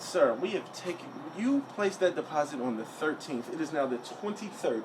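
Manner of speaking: mock-official clerk, softly measured; Bryce. Agent explaining the deposit dates, softly imitated official voice. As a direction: imitate a precise, condescending agent. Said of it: "this is exactly how he's talking to me".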